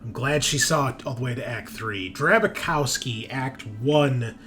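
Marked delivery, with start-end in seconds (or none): 2.1-4.4 deliberate second-person story reading with pauses; dramatic read-aloud. Acted. Game master revealing a spy's secret agenda, dramatic read-aloud. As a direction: narrate a character briefing.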